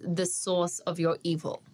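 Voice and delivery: SOURCE with no R, just like sauce; Australian non-rhotic SOURCE; Australian pronunciation. Shown as a demonstration. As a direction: say SOURCE the Australian way, rhyming with horse minus the R. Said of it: "are exactly the same".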